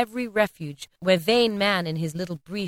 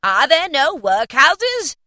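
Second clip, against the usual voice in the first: slow, high, loud ghostly taunt; slow mocking ghost; 8 semitones higher, 8 dB louder, slower than usual. A narrator's reading. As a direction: drag it out like a scornful spirit. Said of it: "said the spirit".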